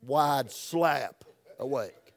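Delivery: slow, drawn out again; slow for emphasis. Shown as a demonstration. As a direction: lean on SLAP, stretch it out. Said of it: "that's for emphasis".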